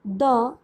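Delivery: द with a short uh. Shown as a demonstration. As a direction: say द short, like duh. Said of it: "की pronunciation".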